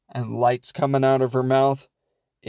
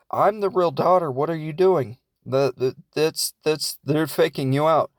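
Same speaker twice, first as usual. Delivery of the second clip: higher-pitched pleading daughter, lightly acted; retold protest with raised pitch; 4 semitones higher than usual. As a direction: play a kid insisting to be believed. Daughter protests to disbelieving mother.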